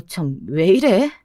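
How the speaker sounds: ordinary delivery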